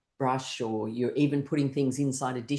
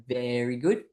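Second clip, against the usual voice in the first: group cheer; 3 semitones lower, slower than usual. Shown as a demonstration. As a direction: chant evenly, then burst into yay. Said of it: "copy me and go".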